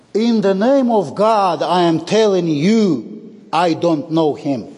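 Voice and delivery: emphatic acted oath of denial; swearing an oath. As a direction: insist as if swearing before God. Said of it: "He is swearing with the most".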